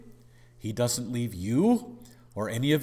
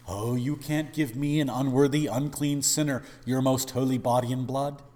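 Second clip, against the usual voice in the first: louder, higher self-pitying sinner voice; mock unworthy protest; 3 semitones higher, 6 dB louder than usual. Preacher mimicking a sinner refusing the sacrament, protesting. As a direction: whine your unworthiness. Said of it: "don't talk like that".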